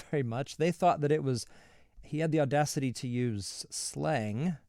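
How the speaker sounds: ordinary talk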